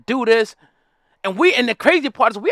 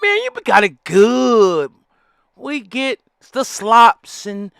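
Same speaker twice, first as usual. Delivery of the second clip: content slave caricature; 2 semitones higher than usual. Retold or imitated. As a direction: play a man who loves his chains. Content slave character voiced.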